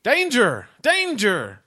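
high yelled robot alarm; yelling alarm. Acted. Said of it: "He's actually just yelling klaxon very loud".

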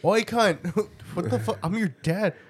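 mock cheeky kid. Mocking son's cheeky address.

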